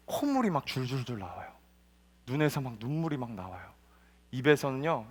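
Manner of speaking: ordinary delivery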